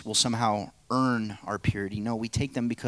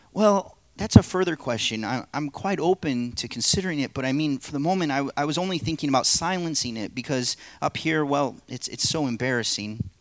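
higher, nervous hedging; the man, evasive; 4 semitones higher than usual. Acted. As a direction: dodge the question, higher and hurried. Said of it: "play the narrator and three parts".

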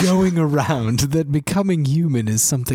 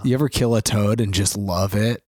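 sneering gloating dark voice; 4 semitones lower than usual. Pretend. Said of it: "I'm doing an impression".

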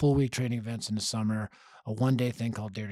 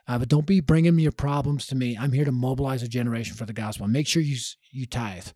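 bold declaration; 2 semitones higher, 6 dB louder than usual. Retold or imitated. Yankee telling the adults his terms, loud and bold. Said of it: "So he told the adults".

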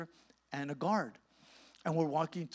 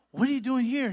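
higher, louder retold question; incredulous question; 8 semitones higher, 7 dB louder than usual. Preacher asks Quentin veteran about Costa Rica prison, incredulous question. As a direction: press him in disbelief. Presses inmate for an answer.

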